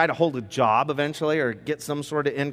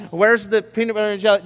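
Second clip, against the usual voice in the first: louder, higher hurried shout through the kitchen; frantic dad; 6 semitones higher, 6 dB louder, faster than usual. Acted. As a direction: search the kitchen in a panic. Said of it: "so then it's like".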